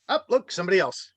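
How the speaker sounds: normal talking voice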